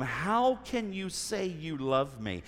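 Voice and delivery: lightly voiced slow whine; Delilah. Delilah pressing Samson daily, a slow, lightly acted whine. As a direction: drag it out softly in mild mock complaint. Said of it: "Delilah in her whiny voice".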